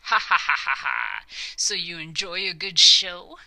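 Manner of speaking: loud, scornful villain laughter; contemptuous snigger. Acted. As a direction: cackle over your own trick. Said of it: "sniggered the contemptuous king to himself".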